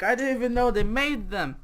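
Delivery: high-pitched mild amazement; amazed. Acted. Storyteller hearing of honey Pop-Tarts, amazed. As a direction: marvel lightly, voice lifted.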